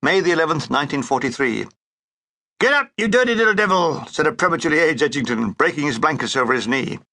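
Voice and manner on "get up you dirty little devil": rousing call. Acted. Waking up the narrator.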